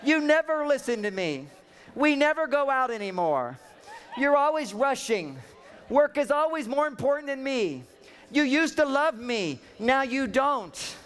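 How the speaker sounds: lightly voiced wife listing complaints; mock nagging wife. Husband imitating his wife's complaints, mock nagging. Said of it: "She says, like".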